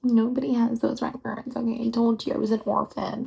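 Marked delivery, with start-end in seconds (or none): 0.0-1.5 Nobody said aloud and firmly; firm voiced insistence. Repeats aloud with conviction.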